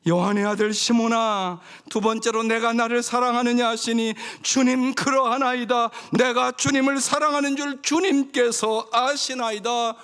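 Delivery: high, loud scripture proclamation; preaching at full force. Acted. Pastor reading Jesus and Peter's exchange aloud, full preaching force. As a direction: declaim the dialogue with force.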